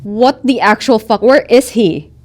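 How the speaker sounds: yelling woman. Acted. Game master voices a woman demanding a man, yelling. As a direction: yell it, demanding to know where he is. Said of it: "this woman yelling".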